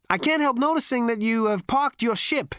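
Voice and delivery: high, sarcastic and offhand; dry cocky Zaphod. A narrator's reading. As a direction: point it out with mock politeness.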